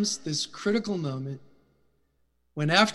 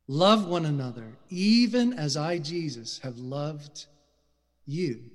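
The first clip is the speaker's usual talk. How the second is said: tender Jesus voice; 4 semitones lower than usual. Acted. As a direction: speak it like a last gentle charge.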